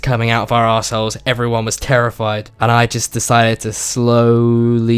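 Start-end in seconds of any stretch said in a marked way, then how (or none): 3.7-5.0 SLOWLY stretched long on its first syllable; SLOWLY said in slow motion; drawn out. Retold or imitated. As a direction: draw out the word slowly to act out the motion. Drawn out to mimic slowness.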